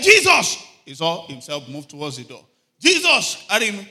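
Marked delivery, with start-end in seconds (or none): 0.0-0.6 screamed high and loud in terror; man in the burning plane shrieks Jesus; desperate shout. Retold or imitated. 2.8-3.9 screamed high and loud in terror; man in the burning plane shrieks Jesus; desperate shout. Retold or imitated.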